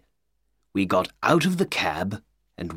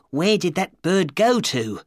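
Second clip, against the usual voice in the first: excited; 7 semitones higher than usual. A narrator's reading. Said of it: "Ryder said excitedly".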